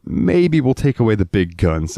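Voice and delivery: high, drawn-out timid maybe; a nervous, unsure offer; mock timid politician; hesitant government. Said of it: "the American government went".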